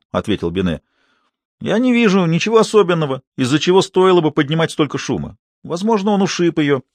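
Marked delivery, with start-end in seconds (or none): 1.6-6.8 scoffing. A narrator's reading. Binet scoffing.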